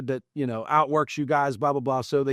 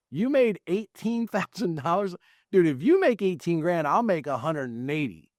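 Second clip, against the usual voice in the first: higher-pitched retold disbelief; can't believe this guy earns that; astonished, challenging a coworker in a retelling; mock incredulity; 5 semitones higher than usual. Acts out disbelief at coworker's earnings.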